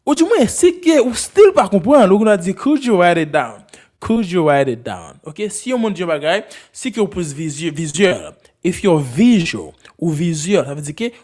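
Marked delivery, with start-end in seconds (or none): 4.0-5.2 slower, spaced model question; slow repeat. Shown as a demonstration. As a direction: repeat it slowly for learners.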